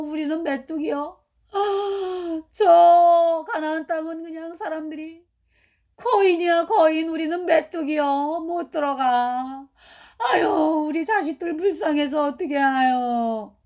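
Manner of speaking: mock crying, slow, tearful wailing through tears. Retelling the spies' fearful report, imitating crying people. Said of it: "막 울면서".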